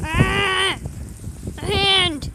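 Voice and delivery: gasping in icy wind. Real, not acted. Hand freezing in a blizzard.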